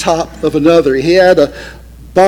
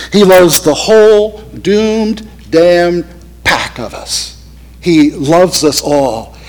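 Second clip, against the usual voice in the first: slow fervent testimony; slower than usual. Retold or imitated. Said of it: "he may have said something like this".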